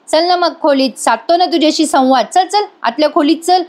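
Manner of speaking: mildly menacing push to come along; Nagraj strange insistence. Retold or imitated. Husband pushing wife into the room, mock insistent urging. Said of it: "विचित्र पद्धतीने हा बोलतोय".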